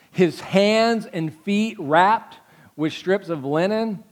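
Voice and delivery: ordinary talk, nothing marked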